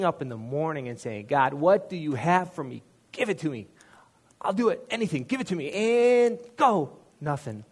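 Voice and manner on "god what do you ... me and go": higher and louder, pleading; climbing, desperate prayer; desperate plea. Retold or imitated. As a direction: beg with building urgency.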